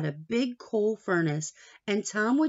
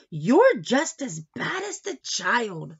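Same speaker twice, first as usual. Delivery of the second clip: scolding grandma; 4 semitones higher, 5 dB louder, slower than usual. Retold or imitated. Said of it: "Nana would say".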